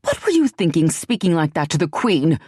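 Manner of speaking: mild maternal outrage. Acted. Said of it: "the light of maternal outrage in her eye".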